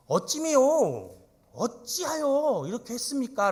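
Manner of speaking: high, loud, stretched cry of betrayal; outraged protest. Acted. Jacob crying out to Laban over the deception, high and outraged. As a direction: demand an answer, voice up high.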